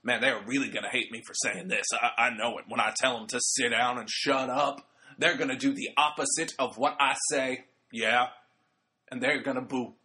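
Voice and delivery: a hint of a heel plotting backstage; badly faked wrestler muttering to himself; Devon. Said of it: "that's my really bad impression of Devon".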